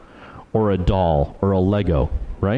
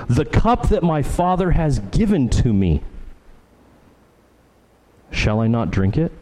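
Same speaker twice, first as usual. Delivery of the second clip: "The cup" fronted and pitched high, question rising on "drink it"; emphasis on CUP; 4 semitones higher than usual. Shown as a demonstration. Preacher showing the Greek word order, high stress on "The cup". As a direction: lift "The cup" high, pause before "shall I not drink it?". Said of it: "the way that we, we would read this".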